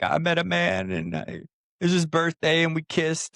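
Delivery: high, mock-crying confession; imitated tearful freak-out. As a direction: act out an overwrought phone call. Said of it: "freaking out, crying, just like".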